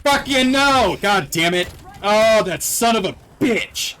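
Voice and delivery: high furious outburst; angry shout. Real, not acted. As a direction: curse the zombie out. Blocked by zombie.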